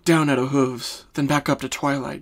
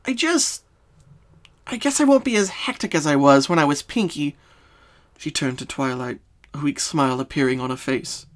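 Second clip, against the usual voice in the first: Pinkie's voice; 5 semitones higher than usual. Acted. Pinkie explaining her childhood trauma to Twilight, sad.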